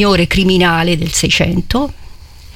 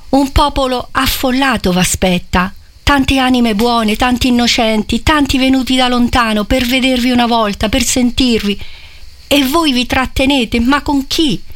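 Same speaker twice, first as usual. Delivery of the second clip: pleading; 5 semitones higher than usual. Acted. Innominato pleading with cardinal.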